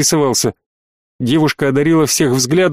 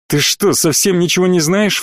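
flaring up; 3 semitones higher than usual. Acted. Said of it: "вспылил Ройс".

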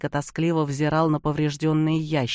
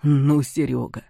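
exasperated sigh; 5 dB louder than usual. Acted. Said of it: "вздохнул Антипов".

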